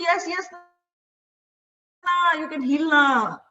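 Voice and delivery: South Indian English, gentle and unhurried with a trailing na; South Indian accent. Retold or imitated. Healer reassures her in a gentle South Indian accent. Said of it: "he had this South Indian accent".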